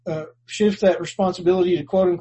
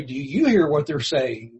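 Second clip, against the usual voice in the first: knowing retort. Shown as a demonstration. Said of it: "I would almost have been tempted to say".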